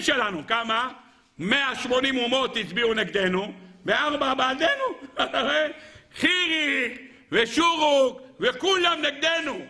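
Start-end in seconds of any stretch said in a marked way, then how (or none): 4.9-5.7 short high-pitched laugh; quick laugh at the lopsided count. Real, not acted. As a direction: let out a brief high laugh. Laughs after the vote count.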